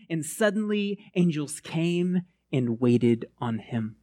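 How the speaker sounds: slow, measured Bible reading; a hint of solemn scripture reading. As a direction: read the passage with weight. Reads scripture aloud.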